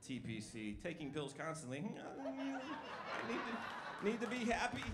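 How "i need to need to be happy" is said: pill-popper voice. Retold or imitated.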